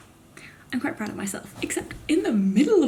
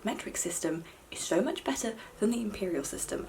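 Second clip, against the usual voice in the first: whispering; 6 dB quieter than usual. Real, not acted. Whispered aside to camera.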